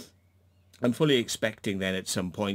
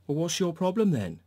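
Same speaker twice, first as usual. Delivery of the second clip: mocking mirror; 7 semitones higher than usual. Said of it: "just mirroring the bullshit".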